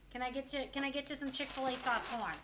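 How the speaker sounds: lively imitated Baltimore local; Baltimore accent. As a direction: put on a Baltimore accent, hun becoming horn. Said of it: "they don't say hun, they say horn".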